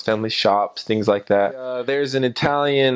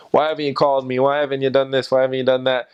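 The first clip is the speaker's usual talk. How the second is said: mock scolding; 3 semitones higher, faster than usual. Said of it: "talk down to him in a silly type of way".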